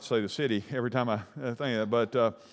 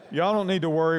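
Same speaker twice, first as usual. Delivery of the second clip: a bit higher and laughing through the words; mocking repeat; 3 semitones higher, 3 dB louder than usual. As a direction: tease the cop's reassurance. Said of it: "We weren't worried".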